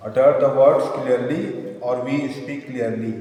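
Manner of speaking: slow dictation, word by word. Acted. Teacher dictating notes for students to write, slow dictation. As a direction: dictate in separated chunks with long pauses.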